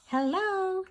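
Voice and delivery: chiming creatures. Acted. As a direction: chime hello like tiny creatures. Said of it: "they chimed".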